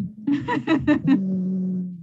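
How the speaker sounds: low rolling chuckle; real low laugh; laughter. Real, not acted. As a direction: laugh at your own tease. Teasing, then laughs.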